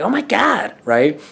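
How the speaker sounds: put-on girly voice, high, very slow, drawn out. Showing the girl's voice the speaker does, put-on girl's voice. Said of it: "when I do the girl's voice".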